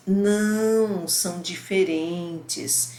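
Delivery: Não lifted, then são diferentes drawn out slowly; lightly voiced student realizing he was wrong. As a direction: catch the mistake, then say it slowly as the insight lands. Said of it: "o contexto faz diferença, a entonação de voz".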